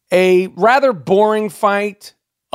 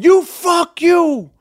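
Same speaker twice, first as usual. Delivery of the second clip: slow, higher jeering shout at him; mock heckler yell; 10 semitones higher, 3 dB louder, much slower than usual. Fan heckling him and his wife, mock yell. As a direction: sneer it out like a rude fan. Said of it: "people are going".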